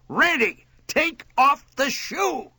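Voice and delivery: high, drawn-out exasperated cry; pained exasperation. A narrator's reading. Mother begs son to free finger, pained and exasperated. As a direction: plead and command through pain. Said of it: "Her voice quavered with pain and exasperation".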